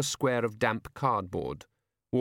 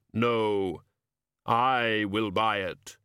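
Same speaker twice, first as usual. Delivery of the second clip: brook no argument; cold insistence; much slower than usual. Acted. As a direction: stranger overriding the shopkeeper. Customer insists.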